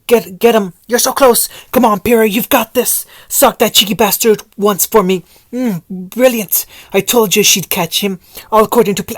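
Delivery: high, loud sideline cheering. Acted. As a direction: yell support from the sidelines. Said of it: "Voice cheered her on from the sidelines".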